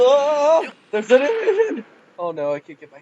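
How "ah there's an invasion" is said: high, raised cry of alarm. Real, not acted. Player spotting an invasion of trolls, alarmed cry. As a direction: call out the sudden danger.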